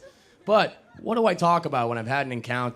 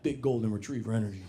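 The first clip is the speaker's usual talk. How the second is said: trying the phrase out; 2 semitones lower, 5 dB quieter, faster than usual. Shown as a demonstration. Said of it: "I'm gonna start saying that".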